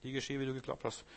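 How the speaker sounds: softly repeated. Shown as a demonstration. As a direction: let it sink in quietly. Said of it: "Jesus sagt".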